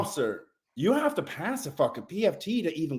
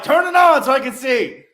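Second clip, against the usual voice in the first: higher, louder barked command; raised urgent retold order; 10 semitones higher, 8 dB louder than usual. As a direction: demand the light now.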